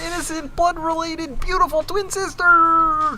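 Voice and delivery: mock savoring. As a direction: drag it out with creepy relish. Reader mock-savoring the fanfic.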